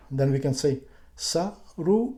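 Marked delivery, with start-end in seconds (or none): 1.1-2.1 saru with the second syllable rising; second syllable pitch change. Shown as a demonstration. Teacher demonstrating readings, saru rising on the second syllable. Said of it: "change the pitch of the second syllable".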